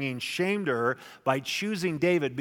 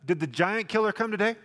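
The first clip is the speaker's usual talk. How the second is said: friendly hypothetical; 5 semitones higher, 3 dB louder than usual. Pretend. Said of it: "He doesn't say".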